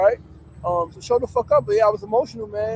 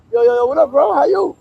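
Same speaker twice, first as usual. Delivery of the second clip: higher, louder hype hello; excited greeting; 6 semitones higher, 6 dB louder than usual. Retold or imitated. Retelling a cheerful hello to a friend while cooking. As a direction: call out like a buddy walking in.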